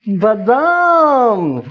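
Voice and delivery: long, drawn-out pleased almond exclamation; slow, wondering almond reveal; delighted discovery. Acted. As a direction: savour the find after a gasp. Finds almonds in freezer.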